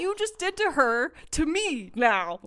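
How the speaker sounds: high, loud, greedy yelling; screaming with greedy excitement; excited yell. Retold or imitated. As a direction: shout for the card like it's a jackpot. Demanding the card.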